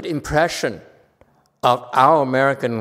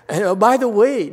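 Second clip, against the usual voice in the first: ordinary delivery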